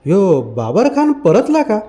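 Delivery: slow, weighty question, "परतला" drawn out; grave and slow. Acted. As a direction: doubt the good news, gravely. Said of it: "फकीरा गंभीर होऊन म्हणाला".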